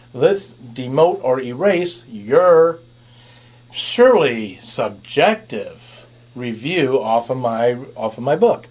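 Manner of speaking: mock an Amazon reviewer, slowly and sarcastically; sarcastic. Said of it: "I'm being very sarcastic".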